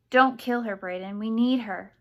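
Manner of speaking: loud, urgent appeal; shouted plea. A narrator's reading. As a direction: call out to stop them. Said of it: "Serafina shouted".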